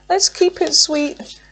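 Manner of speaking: lilting high appeal; sing-song plea. Real, not acted. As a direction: coax Spirit gently in a lilting voice. Cooing to Spirit about cards.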